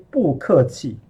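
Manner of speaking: 不客气 with 不 falling like 客; wrong double fourth tone. Shown as a demonstration. Teacher shows what not to say, 不客气 with falling 不. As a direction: drop 不 sharply before a falling 客气. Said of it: "you don't say".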